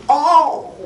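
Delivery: high mock scream of pain; imitated scream. Patient laid on the exam table, imitated scream. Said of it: "I screamed, blood-curdling scream".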